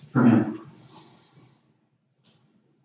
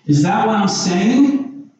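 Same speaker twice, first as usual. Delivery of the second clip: rhetorical question; 6 semitones higher, slower than usual. Acted. Preacher posing the objection high and slow. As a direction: lift and stretch the doubting question. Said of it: "so what are you saying?".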